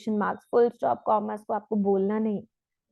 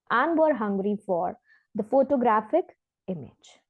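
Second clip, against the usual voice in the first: slow, careful reading of a test passage; measured demo reading; exam read-aloud; much slower than usual. Shown as a demonstration. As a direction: read it out like a model answer. Reads example passage aloud.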